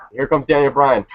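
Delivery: lightly mocked dull announcer, barely moved from own voice; a bored, limp entrance call; flat Michael Cole call. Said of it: "this is how Michael Cole announces".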